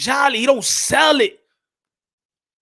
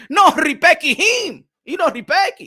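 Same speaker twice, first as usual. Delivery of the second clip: indignant shout; 4 semitones higher, slower than usual. Real, not acted.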